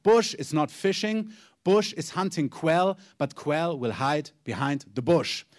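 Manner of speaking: slow, deliberate prophet's pronouncement in English; measured, weighty delivery; solemn prophetic voice. Retold or imitated. Preacher quoting the prophet to the leaders, slow and solemn. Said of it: "räuspert sich und sagt".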